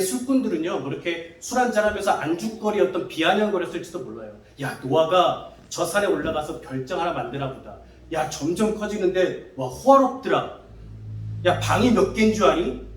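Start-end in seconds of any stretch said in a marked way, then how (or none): 4.6-12.9 a hint of a drunk neighbour's sneer; mocking jeer. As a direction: tease him with a sneering laugh in the voice. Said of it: "이러면서 놀리지 않았을까요?". (비웃듯 놀리는 말투)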